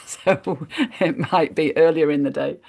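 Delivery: lightly amused, chuckling into the words; light chuckle. Real, not acted. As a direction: let a small laugh break into the start. Chuckles at own time-zone caveat.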